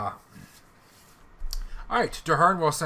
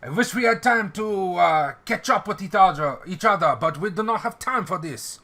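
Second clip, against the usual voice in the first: French officer voice; 5 semitones higher, 3 dB louder than usual. Acted. NPC Louis delivers urgent news.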